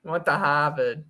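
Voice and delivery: dropped-r Boston "Harvard"; mock Boston accent, flat and dry; a teasing Boston accent; bad Boston accent. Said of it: "I think that's the worst Boston accent".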